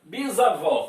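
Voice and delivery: Bisavó with a strong final vó; stress on last syllable. Shown as a demonstration. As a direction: land firmly on the end of Bisavó. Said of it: "qual é a sílaba mais forte". (Bisavó com a última sílaba forte)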